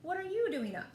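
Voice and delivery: Santa voice. Acted.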